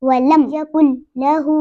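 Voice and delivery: वलम closed, long hoo in लहू; no-bounce recitation. Shown as a demonstration. Teacher models the phrase, closed वलम. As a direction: join यकुल into लहू, holding the last vowel. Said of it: "कलकला नहीं होगा".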